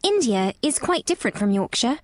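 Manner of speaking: slowly, thinking. A narrator's reading. Girl thinking the matter over, slow. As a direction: weigh the thought as a young girl. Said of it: "Mary said slowly, as she thought the matter over".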